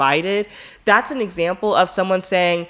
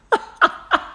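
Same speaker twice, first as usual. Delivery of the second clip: breathy real laugh. Real, not acted. Laughs at her own singing.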